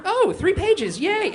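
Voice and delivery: high, sarcastic mock cheer; sarcastic yay. Comic mocking his own dread at pages left, high sarcastic cheer. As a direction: squeak out a fake yay.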